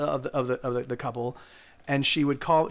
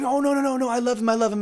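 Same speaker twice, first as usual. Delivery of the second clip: higher-pitched mock protest, words tumbling out; imitated protesting; 6 semitones higher, faster than usual. Girlfriend defending her boyfriend to a friend, imitated protesting. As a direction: lightly act out a girlfriend's anxious defence.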